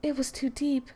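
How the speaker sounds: game character reading her poem aloud; Monica's voice. Acted. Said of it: "Supposed to be reading it in Monica's voice".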